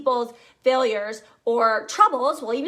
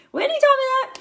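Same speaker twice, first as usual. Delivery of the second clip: much higher and louder playful repeat of the name; excited squeal; 13 semitones higher, 5 dB louder than usual. Shown as a demonstration. Leader to her team, gushing about her mentor Whitney, high excited squeal.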